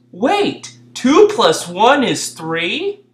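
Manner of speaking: a high 'wait', then slow puzzled question; mock realisation. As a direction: pretend to work out the math.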